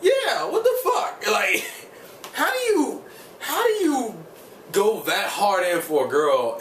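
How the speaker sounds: way up high, laughing through it; a laughing, squeaky 'what the fuck' of shock; outraged disbelief. Retold or imitated. Viewer reacting to Nakai's turnaround, high laughing outrage. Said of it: "and I'm like".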